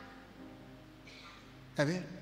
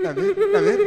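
high, loud excited cry; loud, higher excited exclamation; 9 semitones higher, 9 dB louder than usual. Real, not acted. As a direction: call it out in triumph. Excited during healing.

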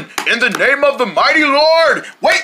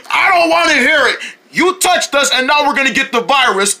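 upset high complaint; 4 semitones higher than usual. Acted. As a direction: scold in a panic. Upset deerling rebuke.

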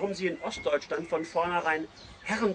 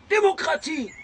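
loud, much higher bawling cry; bawled; 12 semitones higher, 7 dB louder than usual. Acted. Narrator bawls back at Stroganow, loud high bawl. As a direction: bellow it like a drunk chant. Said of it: "grölte ich".

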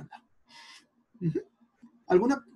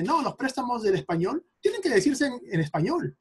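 higher-pitched mock insistence; imitated objectors; 7 semitones higher than usual. Teacher quoting people in Quechua Facebook groups, mock objection. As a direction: quote the purists objecting, pitched up. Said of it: "mucha gente en grupos de quechua en Facebook que dice".

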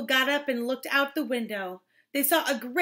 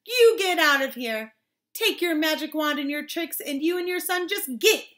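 lightly acted angry banishing; mild scolding; 2 semitones higher, 3 dB louder than usual. Townspeople to the father and son, mildly angry order. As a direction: send them packing, punching the start.

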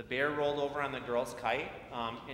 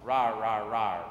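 loud, lower growling bear roar; hammed-up bear roaring as he stomps down the mountain; 3 semitones lower, 8 dB louder, slower than usual. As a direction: roar like a grumpy storybook bear.

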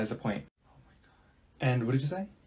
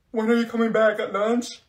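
ordinary talk, nothing marked

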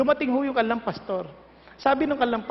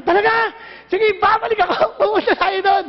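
eager delight; 5 semitones higher, 3 dB louder than usual. Retold or imitated. Preacher's eager reply.

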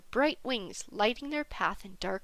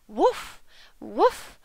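loud call with rising pitch; 3 semitones higher, 7 dB louder than usual. A narrator's reading. Freya seeks Wolf in the forest, calling out. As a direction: call into the forest for someone unseen. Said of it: "and called out".

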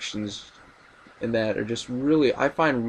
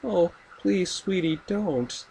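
high, sweet mock mother; imitating a sugary mom pleading; sweetly insistent; 7 semitones higher, slower than usual. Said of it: "and she's like".

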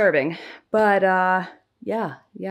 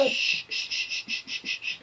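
soft unvoiced shushing, fading; 5 dB quieter than usual. Real, not acted. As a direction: hush them gently, softer each time. Hushing the babies.

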